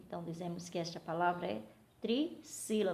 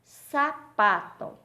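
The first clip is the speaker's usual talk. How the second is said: "Sapato" slow, high and loud, split after SA; syllable demo; 4 semitones higher, 8 dB louder, much slower than usual. Shown as a demonstration. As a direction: ring out SA - PATO slowly. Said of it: "dividir as palavras em sílabas".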